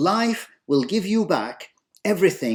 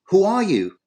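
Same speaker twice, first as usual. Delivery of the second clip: put-on a curious boy's raised call; yelling; 4 semitones higher, 4 dB louder than usual. Son yelling out to the mountain, raised voice. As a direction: shout it out across the mountains. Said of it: "and he yells".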